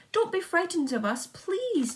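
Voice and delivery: high, loud call to the crowd. A narrator's reading. James calling down to the crowd, high and loud. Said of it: "James called out".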